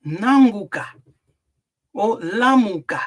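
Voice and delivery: Nanguka and lamuka said out loud and clear; Nanguka, lamuka, each word given its own weight; Kikongo words. Shown as a demonstration. Teacher saying Kikongo words for the class, loud and clear. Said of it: "in Kikongo".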